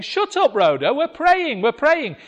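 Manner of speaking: mock-exasperated prayer leader; annoyed shushing. Leaders hushing Rhoda again.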